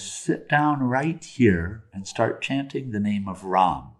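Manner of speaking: slow, soft guidance from a sage; unhurried, soothing direction; calm instruction. Retold or imitated. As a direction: gently guide him, drawing out the words. Sage instructs repentant robber.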